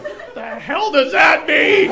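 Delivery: high, loud baffled outburst; a guy at a concert, baffled and loud. Retold or imitated. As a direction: demand it in disbelief. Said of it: "And he was like".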